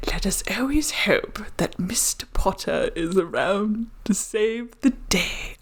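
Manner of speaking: hushed sneering whisper; imitating Lucius Malfoy. Quoting Lucius in Dumbledore's office, hushed sneering. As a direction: breathe the threat, then slow the end. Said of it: "the actor improvises the line".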